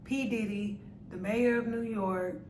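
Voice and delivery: slightly muffled by fingertips; speaking with fingers on lips. Real, not acted. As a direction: hand partly covering mouth. Seen 2: Fingertips rest on lips most frames; hand briefly lowered near 5.4.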